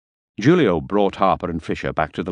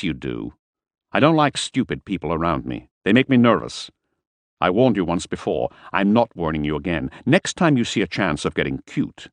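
menacing Harper; 3 semitones higher than usual. Acted. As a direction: threaten the driver, lightly voiced.

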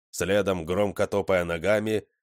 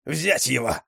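higher, sharp order to attack; barked command; 5 semitones higher than usual. A narrator's reading. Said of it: "рявкнула четвёртая". (рявкнуть приказ)

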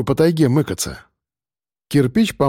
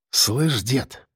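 quietly; 5 dB quieter than usual. A narrator's reading. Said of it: "тихо проговорил Рыжий".

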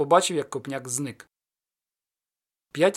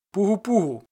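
ringing call, pitched up and out; cossack call; 4 semitones higher, 3 dB louder than usual. Acted. Ostap calling at the gate, loud call. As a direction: hail the gate like a Zaporozhian. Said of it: "загукав за січовим звичаєм".

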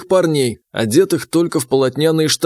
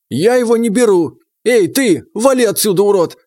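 angry shout; 6 semitones higher than usual. A narrator's reading. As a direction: drive the newcomer away with contempt. Княжич гонит новичка. (яростный крик, гонит прочь)

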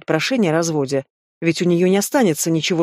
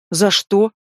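fake indignation; 3 semitones higher than usual. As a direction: play the wronged innocent. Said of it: "неискренне возмутилась она".

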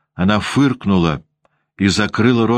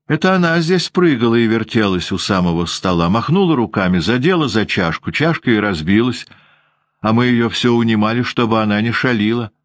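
девочка жалуется; 5 semitones higher than usual. Acted. Девочка оправдывается перед воспитательницей.

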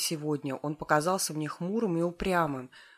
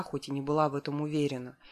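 ordinary delivery, nothing marked

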